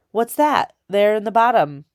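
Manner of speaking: tense. A narrator's reading. Soldier spotting something in the basket, tense. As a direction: press the question, suspicious now. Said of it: "in a different, tenser voice".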